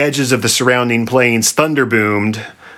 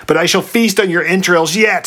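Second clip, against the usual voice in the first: high, theatrical threat; hammed-up monster menace; mild shriek; 9 semitones higher than usual. A narrator's reading. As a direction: shriek it without much volume, pitch lifted. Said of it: "shrieked the Sphinx".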